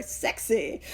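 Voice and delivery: whispered, playful purr; mock sultry aside. Joking about Fulton Oursler's name, mock-sultry whisper. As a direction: whisper it as if swooning.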